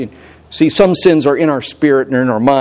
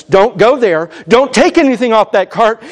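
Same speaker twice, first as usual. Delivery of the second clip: shouting; 8 semitones higher than usual. Retold or imitated. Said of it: "He's shouting at us".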